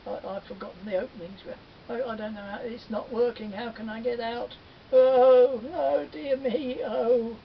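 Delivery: high, fast fretful stammer; trapped and losing his nerve; panicky. Acted. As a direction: spider fretting in rising panic.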